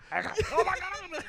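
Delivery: high, slow, drawn-out "oh my God"; mock shocked gasp. Blindfolded player touching a face, mock shock. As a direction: play up the shock, stretching every word. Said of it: "So they go".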